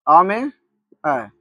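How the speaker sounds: very slow, stretched "आ में ऐ"; slow teacher's vowel demo; drawn-out vowel demo. Shown as a demonstration. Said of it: "फिर आ में जोड़ना होगा ए".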